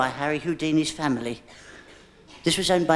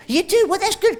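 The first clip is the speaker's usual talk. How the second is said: mock delight; 13 semitones higher, 4 dB louder than usual.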